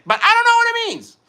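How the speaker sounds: very high-pitched squeal of confusion; mock exasperation. Streamer baffled by what chat keeps saying, high mock exasperation. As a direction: let it leap up high, playfully exasperated.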